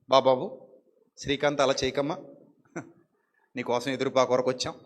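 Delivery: soft, pleading voice imitating church members; coaxing plea. Church members coaxing a sulking Srikanth back, soft pleading. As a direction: gently beg him to come back, softly.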